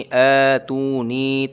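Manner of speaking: very slow अ तू नी, vowels held equally; slow recitation; all stretched. Shown as a demonstration. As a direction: draw out all three syllables evenly. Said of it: "तीनों को बराबर खींचना है".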